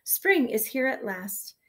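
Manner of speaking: high, loud shout easing off toward the end; children's storybook wake-up shout; excited shouting. A narrator's reading. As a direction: holler to get sleepers out of bed. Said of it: "jumped on the bed and shouted".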